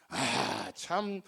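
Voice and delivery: low, soft, drawn-out disbelief; skeptical inner remark. Retold or imitated. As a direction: mutter a doubter's scoff, dragging the first words. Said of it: "이렇게 생각해요".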